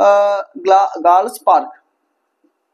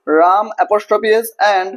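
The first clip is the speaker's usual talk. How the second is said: very slow, word by word; slow dictation to the class; much slower than usual. Shown as a demonstration. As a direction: dictate each word slowly. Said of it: "dictating slowly".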